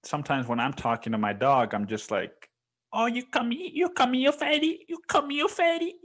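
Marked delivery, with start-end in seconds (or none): 2.9-6.0 very high mock Asian accent cooing to a dog. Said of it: "Asian accent".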